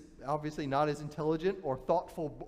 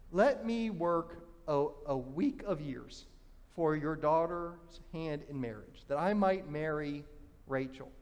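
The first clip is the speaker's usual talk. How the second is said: slow, lower, softer sincere offer; earnest proposal; 3 semitones lower, 4 dB quieter than usual. Acted. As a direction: offer your years humbly. Jacob proposes seven years' labour.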